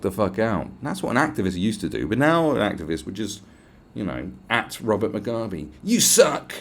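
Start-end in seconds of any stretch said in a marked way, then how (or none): 5.8-6.5 put-on higher, louder childish jab; mock activist's weak insult; mocking whiny insult. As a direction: sneer it like a feeble taunt. Mocking feeble online activist insult.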